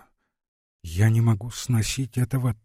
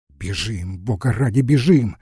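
urgent plea. Acted. Urging flight in panic.

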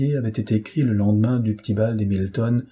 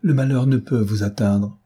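insistent, with a touch of vehemence; mild vehemence. Acted. Maria contradicting her sister's gloom, mildly vehement. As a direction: press the point with understated vehemence. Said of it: "s'écria Maria avec véhémence".

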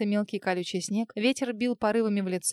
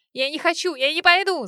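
higher and louder desperate scream; 7 semitones higher, 7 dB louder than usual. A narrator's reading. Wife screaming back at her husband, desperate cry. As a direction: scream your refusal back. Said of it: "закричала она в ответ".

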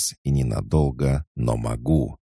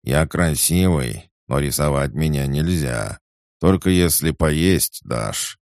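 put-on sleepy child; 4 semitones higher, 4 dB louder than usual. Sleepy pig Borya continues.

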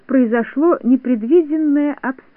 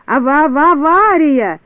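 stammered alarm, louder and drawn out; panicked cry; 5 semitones higher, 5 dB louder, slower than usual. A narrator's reading. Syrupchik alerts everyone as the balloon falls, panicked cry. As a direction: cry out slowly, stumbling on the word. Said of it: "закричал Сиропчик".

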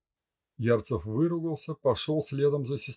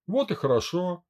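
plain reading voice

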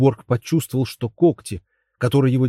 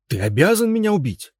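shout; 7 semitones higher than usual. A narrator's reading. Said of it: "закричал он".

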